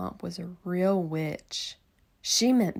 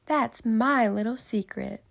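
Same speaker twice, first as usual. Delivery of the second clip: coy secret; 3 semitones higher, 7 dB louder than usual. Acted. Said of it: "said Miss Nelson".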